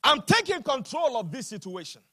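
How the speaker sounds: emphatic take-charge statement; firm resolve. Retold or imitated. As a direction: proclaim the decision to the congregation. Repeat after the built-up declaration.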